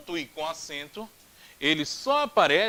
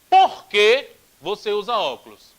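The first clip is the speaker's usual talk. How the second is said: stretched question; 9 dB louder than usual. Shown as a demonstration. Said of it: "um porquê que sai mais esticado".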